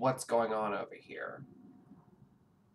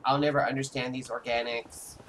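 flat digital robot voice. Pretend. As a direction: speak like a robot. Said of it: "I had to do it in the robot voice".

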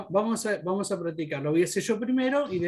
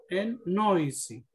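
slow demo word; much slower than usual. Shown as a demonstration. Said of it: "tenemos la palabra".

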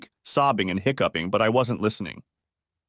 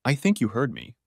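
grim. Acted. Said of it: "said grimly".

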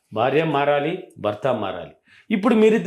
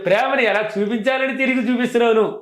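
playful wife; 4 semitones higher than usual. Retold or imitated. Wife sweetly answers scolding husband.

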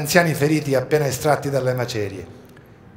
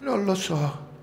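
put-on child's voice; 6 semitones higher, slower than usual. A narrator's reading. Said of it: "rispose la bambina".

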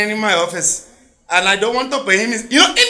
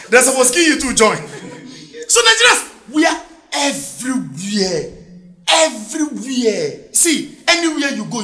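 ordinary talk, nothing marked

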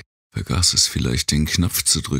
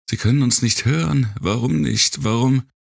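much higher, faster desperate cry; a girl close to tears, pleading; panicked girl; 10 semitones higher than usual. Acted. Girl despairs, no radio answer.

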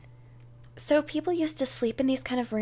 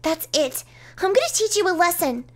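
high, loud, threatening character voice; acted girlish outrage; angry pout; 6 semitones higher, 5 dB louder than usual. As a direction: lose patience in a raised, pouty voice. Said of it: "She pouts angrily at those words".

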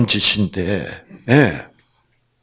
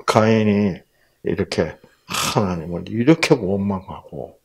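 ordinary talk, nothing marked

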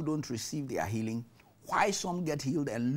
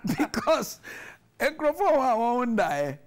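higher and louder, still buzzing from laughter; animated, laughing energy; excited and amused; 8 semitones higher, 6 dB louder than usual. Real, not acted.

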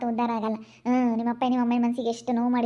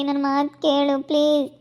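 desperate plea; 5 dB louder than usual. Acted. Wife loudly begging husband Suri to understand her pain. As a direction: beg him, getting louder with each line.

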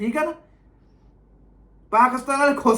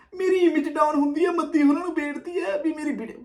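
higher mock-plaintive voice; mocking imitation; 4 semitones higher than usual. Reactor mimics the man begging Maddi, mocking imitation. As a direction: parody a wronged man's plea. Mimics complainer's plea from the clip.

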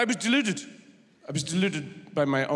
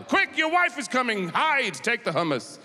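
higher, hurried mock panic; mock urgent alarm; 4 semitones higher than usual. Warning a lover that his wife is coming, mock panic. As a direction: hiss a warning like a caught lover.

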